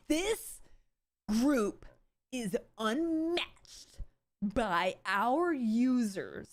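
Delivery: slow, stilted robotic parody of her; mock AI voice. Streamer parodying the CEO's stilted delivery as robotic. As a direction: drag the words out like a stiff AI. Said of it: "She sounds like A I".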